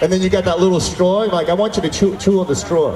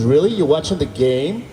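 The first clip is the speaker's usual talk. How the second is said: sceptical disbelief. Retold or imitated. Girlfriend doubting he watches sports, sceptical disbelief. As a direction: draw out the question as if not buying it. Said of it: "The reason she said it like that".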